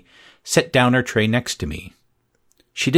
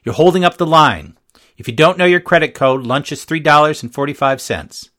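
loud, higher impatient scolding; scolding lunch lady; 6 semitones higher, 5 dB louder than usual. A narrator's reading. Lunch lady to the girls in line, loud impatient scold. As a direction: scold the kid holding the line.

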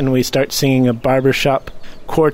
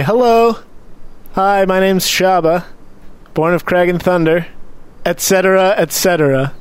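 cheerful greeting; 4 semitones higher than usual. Acted.

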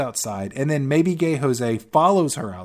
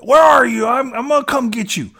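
higher-pitched, pushy caller; insistent Christian impression; 7 semitones higher, 4 dB louder than usual. Billionaire calls right back after she hangs up, insistent. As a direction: play an over-eager, high-pitched suitor.

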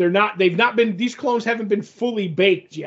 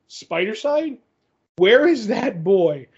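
incredulous echo; 3 semitones higher than usual. Retold or imitated. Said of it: "He's like".

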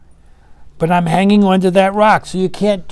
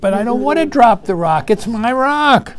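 higher, stretched-out objection at the end; hammed-up refusal, rising in pitch; mock stubborn protest; 5 semitones higher than usual. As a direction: act out clinging possessively, drawing out the last words. Acted refusal to let go.

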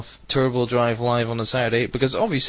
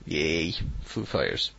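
mock cheer; 6 semitones lower, 6 dB quieter than usual. Mock cheer announcing the closing song.

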